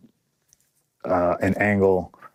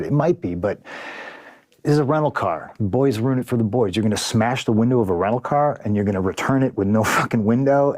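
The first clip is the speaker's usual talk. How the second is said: exasperated retort; 3 semitones higher than usual. Retold or imitated. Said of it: "And I said".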